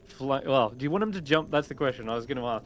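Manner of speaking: usual speaking voice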